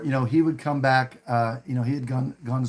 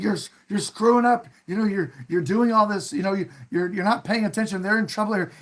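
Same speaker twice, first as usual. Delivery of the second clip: retold scolding, pitched higher without shouting; mild mock yelling; 5 semitones higher than usual. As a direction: imitate an upset boss telling off his helper. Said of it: "he starts yelling at George".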